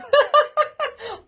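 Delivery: high, loud burst of laughter; real laugh. Real, not acted. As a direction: burst out laughing at your own remark. Laughs at own pub remark.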